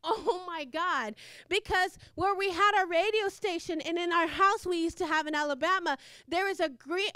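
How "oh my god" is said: amazed whisper-soft. Retold or imitated. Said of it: "and I'm like".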